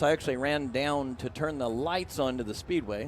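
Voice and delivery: out of breath from running; panting between words; heavy breathing. Real, not acted. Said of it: "so I'm out of breath".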